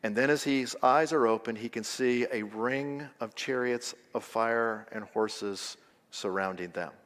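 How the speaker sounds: low, soft, solemn close; hushed reassurance. Real, not acted. Preacher tells friends not to fear, hushed. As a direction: let it sink low and quiet for the congregation.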